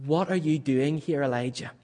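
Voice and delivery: a soft, tender question; gently. Acted. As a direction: ask it gently, like a kind father. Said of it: "the Lord asks gently".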